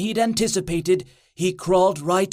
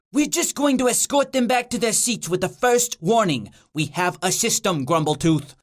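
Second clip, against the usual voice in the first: demon officer citing procedure; reasonable demon. Acted. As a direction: put on a mild demon voice, correcting a colleague. Plays the second, reasonable demon.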